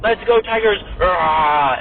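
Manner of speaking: small playful tiger roar after a cheer; mock roar. Player suggesting a Tigers team cheer, mock roar. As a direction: team cheer ending in a half-hearted roar. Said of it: "Oh, we could roar".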